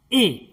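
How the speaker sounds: "ए" said as a short sound; short vowel. Shown as a demonstration. Teacher showing learners the short i sound, short "ए". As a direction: keep "ए" brief, not drawn out. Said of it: "यानी छोटा sound".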